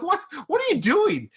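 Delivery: lightly voiced, high reporter calling out; high mock reporter. A reporter calling out to Rocky, high and mocking. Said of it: "one of the reporters yelled".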